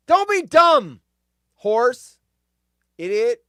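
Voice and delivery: loud, high self-scolding shout; yelling at himself. Real, not acted. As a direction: bark at yourself like an idiot. Scolding himself over window.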